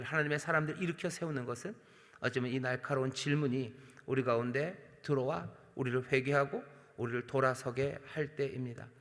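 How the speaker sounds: ordinary talk, nothing marked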